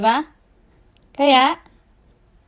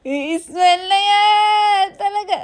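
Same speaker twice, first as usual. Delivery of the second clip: playful coaxing; 5 semitones higher, 3 dB louder, slower than usual. Real, not acted. Mother coaxing baby to smile.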